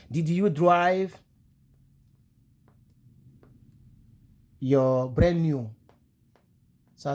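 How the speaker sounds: "Did you drive your brand new car" stretched word by word; slow English model. Shown as a demonstration. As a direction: drill it slowly for students. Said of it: "teacher drilling English phrase".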